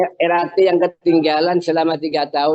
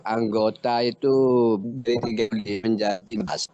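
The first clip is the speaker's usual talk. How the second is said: words broken up by a bad signal; choppy connection. Real, not acted. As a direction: voice cutting out between words. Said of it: "suaranya putus-putus".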